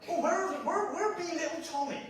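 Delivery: a hint of an olde-worlde mum calling out; mock medieval mother.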